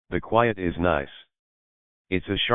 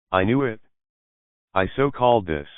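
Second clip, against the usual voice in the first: excited; 3 semitones higher than usual. A narrator's reading. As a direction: crow with delight. Excited friend celebrating news.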